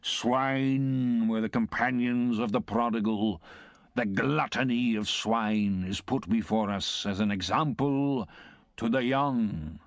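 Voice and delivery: lightly voiced pompous clerk, slow and sententious; a hint of pulpit moralizing; preachy clerk. Wopsle sermonizing at the table.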